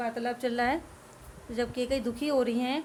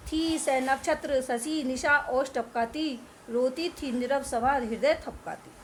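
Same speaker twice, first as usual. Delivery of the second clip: slow, measured verse recital; poem recitation. Acted. Teacher reciting the night scene to students, slow verse. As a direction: read the lines like a solemn poem.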